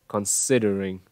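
Considering falling to a lax final "ring"; falling intonation. Shown as a demonstration. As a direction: step down through Considering with a short lax i. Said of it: "Âm y đấy và cái hướng đi xuống". (Considering, đi xuống, âm i ngắn)

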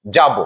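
যাব as "jabo", ending in o; pronunciation demo. Shown as a demonstration. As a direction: say যাব carefully with a rounded final "o". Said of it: "ও রূপে উচ্চারণ হয়".

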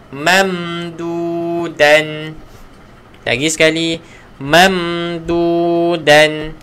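"Mamdudan" drawn out, slow and even; slow recitation. Shown as a demonstration. Teacher modelling "Mamdudan" for students, slow recitation. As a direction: chant "Mamdudan" slowly, each sound clear.

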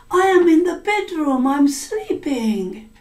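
high daughter voice. Acted. Blood answers as the daughter.

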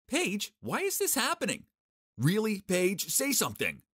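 high, loud anxious plea; desperate pleading. Acted. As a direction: beg her to answer. Pleading at engagement party.

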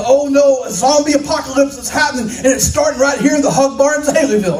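mock panic. Farm boy in the dark imagining zombies, mock panic. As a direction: rush it out in pretend alarm.

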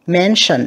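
"Mention" with MEN stressed; first-syllable stress. Shown as a demonstration. Teacher showing students word stress, MEN-tion with the first syllable stressed. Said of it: "âm một nha".

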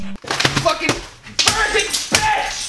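slow high strained rage outburst; sudden slow furious swearing. Real, not acted. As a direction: let the gamer rage burst out, drawn out. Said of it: "I rage".

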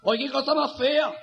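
piercing high yelp, then slow disgust; camp horror. Acted. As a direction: shriek theatrically at the sight. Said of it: "La mariquita que la ve".

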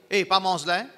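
"Eh, pas mange là" lancé plus fort, en mise en garde; ton d'avertissement. Shown as a demonstration. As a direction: dis "Eh, pas mange là" comme un avertissement sec. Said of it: "L'autre tonalité". (ton de mise en garde)

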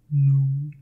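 low, loud, booming refusal; gruff cow. Acted. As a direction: bellow it like a big cow. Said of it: "said the cow".

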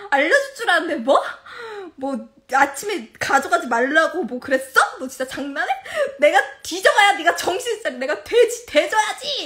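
loud mock tirade with laughter underneath; hammed-up raging at a husband; retold fury. Wife berating husband from the roadside, retold fury. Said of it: "나 진짜 너무 화가 나네?".

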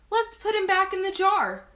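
put-on high, eager child's suggestion; excited cry. A narrator's reading. Henry wanting the butterfly back, eager cry. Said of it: "cried Henry".

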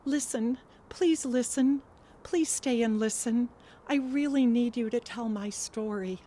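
urgent, anxious pleading; insistent, rising plea; assertive and anxious. Acted. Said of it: "Her voice in my mind was at once assertive and anxious".

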